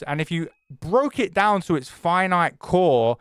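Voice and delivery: pompous nonsense speech, slowed; mock-serious yapping. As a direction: ramble like a serious interviewer. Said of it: "let me do some serious yapping".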